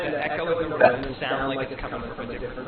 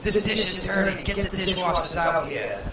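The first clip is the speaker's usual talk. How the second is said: mild orc yell; 5 semitones higher, 3 dB louder than usual. Retold or imitated. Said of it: "an orc in a different room is yelling".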